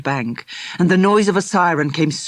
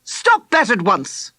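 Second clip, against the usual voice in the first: slow firm command, slightly raised; calm, commanding; 5 semitones higher than usual. Acted. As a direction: cut through the chaos with authority. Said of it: "a calm, commanding voice".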